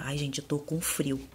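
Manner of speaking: shivering. Real, not acted. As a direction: voice trembling from the cold. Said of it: "meio tremendo".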